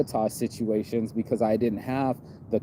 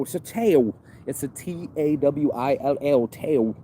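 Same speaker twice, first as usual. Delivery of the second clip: mock New Zealand accent, pitched up; 4 semitones higher than usual. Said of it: "It's a New Zealand accent".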